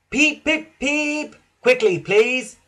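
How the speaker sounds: high whistle-like peeps, then urgent call; high, pressing call. A narrator's reading. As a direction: hurry passengers along, high and loud. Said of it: "called Thomas".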